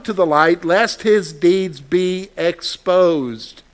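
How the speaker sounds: slow, solemn Bible reading; measured sermon scripture read. Acted. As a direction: read the verse with weight. Reads scripture aloud.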